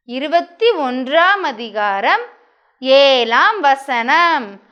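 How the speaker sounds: very slow, stretched-out verse recitation; recite-along verse. Shown as a demonstration. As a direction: lead children through it with long pauses between phrases. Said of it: "நம்ம பார்க்காம சொல்லிடலான்னு". (சேர்ந்து சொல்ல மிக நிதானமாக நீட்டிச் சொல்லுதல்)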